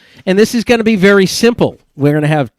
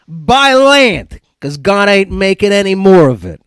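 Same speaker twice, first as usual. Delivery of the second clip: higher-pitched, hammed-up Italian-American accent; 4 semitones higher, slower than usual. Host reads a Sopranos line for the game, hammed-up Italian accent. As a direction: ham up a mobster's Italian accent. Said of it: "Use my best Italian accent".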